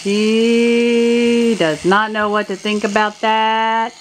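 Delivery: put-on slow voice for the baby; voicing the baby. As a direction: speak the baby's thoughts slowly. Voicing the baby's thoughts.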